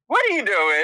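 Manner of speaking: high, probing mock question; acted-out suspicion. Eureka questions the friend at the door, mock suspicious. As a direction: imitate a friend catching you out.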